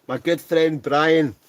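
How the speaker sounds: loud, high, drawn-out welcome; hearty greeting. Real, not acted. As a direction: proudly hail a good mate, slow and loud. Hailing his friend on the stream.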